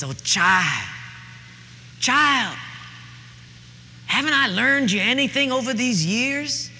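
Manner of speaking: high, preaching Southern mother; a Southern mother scolding her daughter, high and fervent. Acted. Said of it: "that Southern way".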